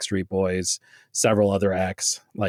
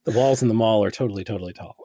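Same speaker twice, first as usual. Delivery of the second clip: laughing; faster than usual. Real, not acted. Laughing through a silly line.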